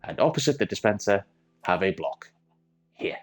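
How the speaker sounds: mock German accent, drifting in and out; put-on German accent. Minecraft tutor explaining a chicken farm in mock German accent. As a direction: play a German engineer with a lightly put-on German accent. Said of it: "carry on as if I knew this was my accent all along".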